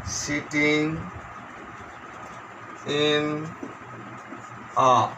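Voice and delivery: slow word-by-word dictation; measured classroom dictation. Shown as a demonstration. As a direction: dictate with long gaps, each word drawn out level. Dictates exercise sentence word by word.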